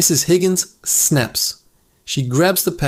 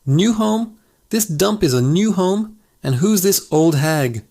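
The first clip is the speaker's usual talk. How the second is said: higher, scornful parrot squawk; 4 semitones higher than usual. Acted. Rude parrot mocking its new owner, high squawk. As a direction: sneer at the new home like a rude bird.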